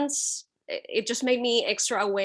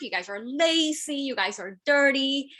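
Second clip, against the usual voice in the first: mimicking a stranger's accusing rant, pitched up; imitated rambling rant; 4 semitones higher than usual. Stranger ranting at a Puerto Rican reporter, imitated rambling. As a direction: reel off accusations in a raised pitch. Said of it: "he started rambling".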